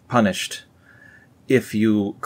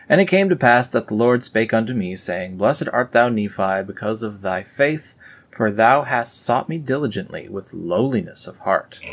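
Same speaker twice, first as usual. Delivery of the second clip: scripture reading. Acted. Reading the Book of Nephi aloud to viewers, solemn. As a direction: proclaim it like old scripture.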